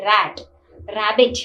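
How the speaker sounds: "rat, rabbit" with the first R sounded; pronounced initial R. Shown as a demonstration. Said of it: "normally R is pronounced".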